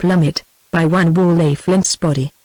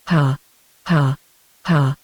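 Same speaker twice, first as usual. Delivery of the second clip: crazy laughter; 4 semitones lower, slower than usual. A narrator's reading. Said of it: "rang Waldron's crazy laughter".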